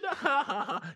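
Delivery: very high, loud mock laughter; imitated defiant laugh. Stroke sufferer answers Mister Devil, imitated defiant laugh. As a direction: laugh right in the devil's face, hammed up. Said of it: "So I'm laughing at you".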